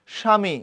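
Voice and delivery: স্বামী said "shami", no b or v; silent bofola. Shown as a demonstration. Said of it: "বফলার উচ্চারণ নাই".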